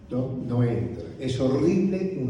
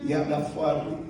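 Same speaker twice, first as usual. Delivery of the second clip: imitating his wife; 5 dB quieter than usual. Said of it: "Viste que mi señora es dicha".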